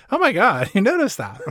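giggly flattered reply; giggling. Acted. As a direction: giggle through it. Acted giddy heroine.

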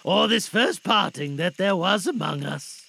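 loud, heartfelt appeal; earnest father Bob. Acted. Father asking family to remember Tim, earnest appeal. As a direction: address them with swelling feeling.

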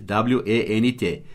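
each letter spelled slowly; slow spelling. Shown as a demonstration. Teacher spells the word for students, slow and clear. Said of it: "O passado de go é went".

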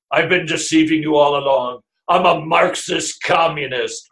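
gloating mock villain confession; sneering panto villain. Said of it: "if Al Mohler comes out and goes".

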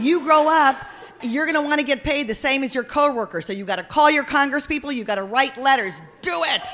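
loud rally speech building to a shout; rousing exhortation. Pretend. Host firing up kindergartners to write congresspeople, rousing shout. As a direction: urge them on, ending high and loud. Pep talk turns into rally.

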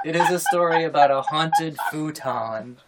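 words spoken through laughter; laughing. Real, not acted. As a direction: still giggling while talking. Still laughing at her anime voice.

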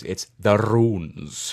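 "runes" with a rolled R, slow and drawn out. Shown as a demonstration. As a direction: roll the R in "runes", British and ethereal. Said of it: "You must roll the R's".

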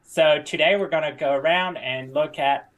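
a hint of hammy Australian; half-managed Australian tour-guide patter; terrible Australian accent. Tour guide opening a tour, shaky attempt at Australian accent. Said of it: "that is a terrible Australian accent".

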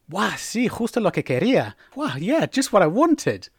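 delighted by a gift, lightly acted; positive wah. Shown as a demonstration. Receiving a present from a friend, happily surprised. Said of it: "it's not always negative with wah".

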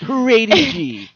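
high mock trailer call; high announcer voice. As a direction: squeal it like a trailer. Trailer joke.

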